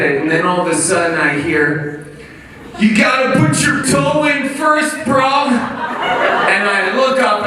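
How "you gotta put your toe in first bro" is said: put-on high-pitched little girl giving advice; eight-year-old girl. Little girl correcting a struggling skier, high child's voice. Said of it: "it's an eight-year-old girl".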